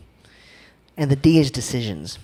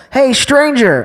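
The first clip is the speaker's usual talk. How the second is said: higher, louder friendly call across a store; retold yell; 9 semitones higher, 7 dB louder, much slower than usual. Tiffany calling out to him at the store, friendly yell. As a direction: shout a cheery greeting. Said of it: "I heard this yell".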